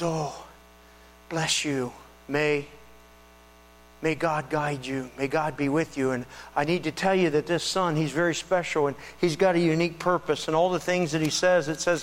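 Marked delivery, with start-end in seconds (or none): 0.0-10.5 tender blessing. Retold or imitated. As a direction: bless them gently. Simeon blessing Mary and Joseph.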